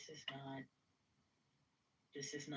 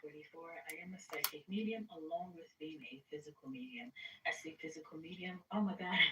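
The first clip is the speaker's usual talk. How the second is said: talking around a bottom retainer; speech slurred by a retainer; wearing a retainer. Real, not acted. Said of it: "I'm talking funny 'cause of my retainers".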